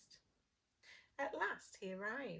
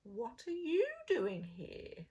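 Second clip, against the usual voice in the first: wolf voice; 3 semitones higher, 4 dB louder than usual. Acted. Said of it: "growled the wolf".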